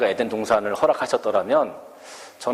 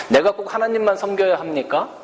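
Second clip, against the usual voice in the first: higher, pleading questions of a torn believer; questioning believer; 5 semitones higher than usual. Retold or imitated. Pastor voices Christians who want both worlds, higher pleading. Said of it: "그렇게 질문하는 그리스도인들이".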